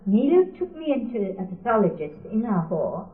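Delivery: usual speaking voice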